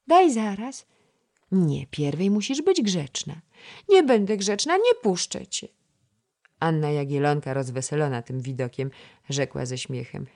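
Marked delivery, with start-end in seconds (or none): 0.1-5.7 put-on much higher, louder, stubborn child; a small girl's tantrum; defiant toddler. A narrator's reading. Toddler refusing to behave, high and stubborn.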